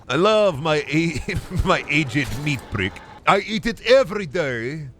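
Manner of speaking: light silly character voice; goofy voice. Pretend. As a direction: play a lightly voiced dopey Soviet eater. Mock Soviet eater voice.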